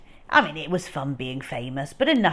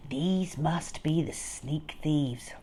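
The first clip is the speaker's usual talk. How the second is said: hushed thought; 3 semitones lower, 7 dB quieter, slower than usual. A narrator's reading. Stanley's hushed realization.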